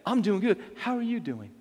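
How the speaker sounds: attentive, personal greeting; sincere reply. Shown as a demonstration. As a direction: answer as if genuinely interested. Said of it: "Look at 'em in the eye and say".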